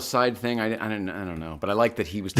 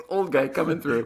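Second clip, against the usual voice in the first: higher voice through laughter; laughing self-mockery; 6 semitones higher than usual. Real, not acted. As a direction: laugh it out at your own expense. Joking after muddling a title.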